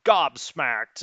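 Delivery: "gobsmacked" with every sound sharply spelled out; over-enunciated. Real, not acted. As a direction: spit out each consonant of "gobsmacked". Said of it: "I really enunciated that".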